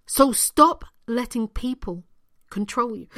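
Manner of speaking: talking through hiccups. Real, not acted. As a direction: hiccups breaking the words.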